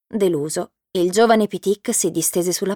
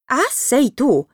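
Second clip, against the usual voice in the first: slow, higher mock echo of his words; mocking imitation; 5 semitones higher, slower than usual. A narrator's reading. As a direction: parrot him back teasingly. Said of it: "gli fece il verso Karim". (lo scimmiotta, lento e canzonatorio)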